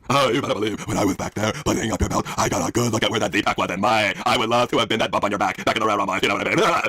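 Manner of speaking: Cody. Acted. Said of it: "I could be Cody for this".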